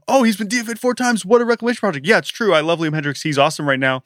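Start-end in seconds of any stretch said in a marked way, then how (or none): 0.1-2.1 sneering mock voice, pitched high; mocking the doubters. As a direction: parody the skeptics with a scoff.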